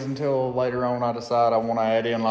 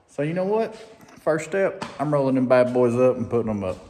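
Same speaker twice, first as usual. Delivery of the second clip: a little excited. Real, not acted. Builder planning his next step in the shop, a little excited. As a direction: let eagerness carry you along. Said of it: "Sorry, I'm a little excited".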